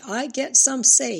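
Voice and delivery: high, loud scream at dad. A narrator's reading. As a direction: scream it at her father. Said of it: "she screamed".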